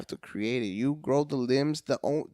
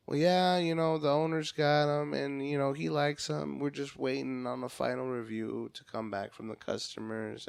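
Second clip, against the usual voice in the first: monotone, slow; 6 dB quieter than usual. Retold or imitated. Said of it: "she was very monotone, slow".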